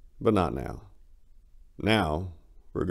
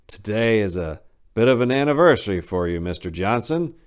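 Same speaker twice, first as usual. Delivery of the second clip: a touch higher and louder, condescending; aloof doctor; 3 semitones higher, 5 dB louder than usual. Acted. Doctor addressing his patient, lightly condescending. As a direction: talk down to him politely.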